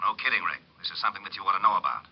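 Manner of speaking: fast, faintly funereal patter; like an auctioneer at a mortuary; grave, hurried. Acted. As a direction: press the bad news with mild solemnity. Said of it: "stop sounding like an auctioneer at a mortuary".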